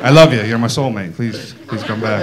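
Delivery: abruptly backing down into tender begging; meek pleading. Acted. Letter writer backs down, pleading.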